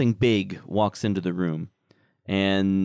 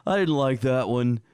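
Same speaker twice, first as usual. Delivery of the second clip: slow, higher sneering creature voice; 3 semitones higher, slower than usual. Acted. Creatures mocking the dead little troll, slow sneering creature voice. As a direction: drag out the insults with a sneer.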